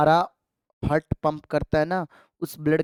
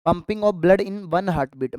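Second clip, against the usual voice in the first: each word slow and spaced for notes; slow dictation; 2 semitones higher, much slower than usual. Shown as a demonstration. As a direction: dictate it slowly to the class. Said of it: "मतलब".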